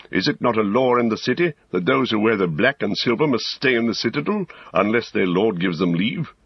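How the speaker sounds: lightly voiced wizard. Gandalf questions Pippin about the law of the city, lightly voiced.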